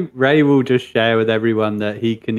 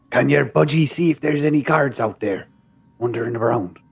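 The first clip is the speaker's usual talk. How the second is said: put-on Irish accent; 3 semitones higher than usual. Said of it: "my dodgy Irish accent".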